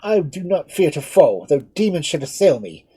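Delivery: high, loud, defiant declaration; defiant exclamation. Acted. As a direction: hurl defiance at a fiend. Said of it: "exclaimed Lord Edmund".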